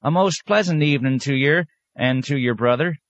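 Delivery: put-on high old country woman's drawl; high-pitched old peasant woman, drawling. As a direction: drawl it out like a sly old tomato seller. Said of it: "she drawled".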